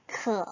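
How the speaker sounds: 크어 said with a clear falling-rising tone; crisp Chinese word demo; Chinese model word. Shown as a demonstration. Teacher models the word for thirsty. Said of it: "물을 벌컥벌컥 마시고".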